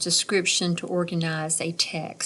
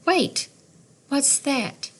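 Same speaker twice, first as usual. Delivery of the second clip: sudden surprise; 7 semitones higher, slower than usual. Acted. Hearing a sound in the story.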